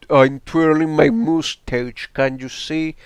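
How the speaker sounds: hammy cartoon villain gloating; mustache twirling villain. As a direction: ham up a moustache-twirling baddie. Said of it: "No, he's an evil".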